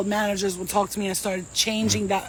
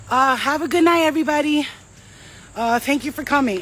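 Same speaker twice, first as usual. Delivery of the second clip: mic sign-off; 4 semitones higher, 4 dB louder than usual. Retold or imitated. Hastily ending the show on mic.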